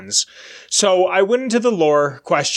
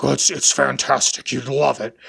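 lightly lowered teacher impression; a hint of a deep-voiced enthusiast; 3 semitones lower than usual. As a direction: imitate a deep-voiced man recommending a film. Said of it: "he had this very deep voice".

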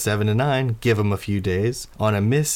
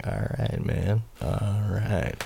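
winking approval; 5 dB quieter, much slower than usual. Acted. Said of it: "He winks at you".

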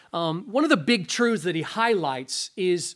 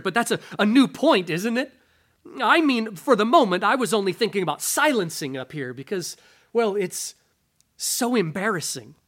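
flustered ghost. Acted.

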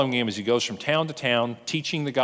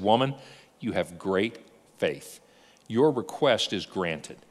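tender blessing; 5 semitones lower, slower than usual. Retold or imitated. Jesus grants the healing.

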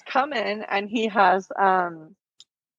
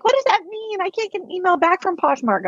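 mock complainer; 10 semitones higher than usual. Mocking complaining users.

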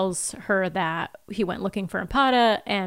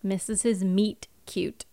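soft whispered echo; whispering; 5 dB quieter than usual. Real, not acted. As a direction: whisper the phrase under your breath. Echoing joke quietly.

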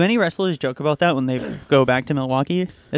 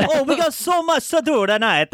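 mock announcer voice; 10 semitones higher, slower than usual. Mock repeat of own line.

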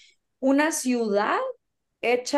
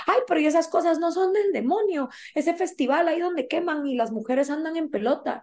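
higher-pitched scandalized questioning; humble Mexican woman; 6 semitones higher than usual. Retold or imitated. Humble woman asking about the festival, mildly scandalized, higher voice. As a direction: lightly imitate a shocked señora. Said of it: "había una señora humilde de Aguascalientes".

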